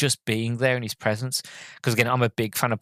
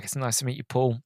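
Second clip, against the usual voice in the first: masking nerves. Retold or imitated. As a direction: keep it casual and contained, as if masking. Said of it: "you know, masking".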